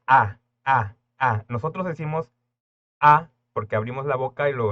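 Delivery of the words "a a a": Spanish open vowel A; drawn-out open A. Shown as a demonstration. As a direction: open A, mouth wide, loud. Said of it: "Presta atención".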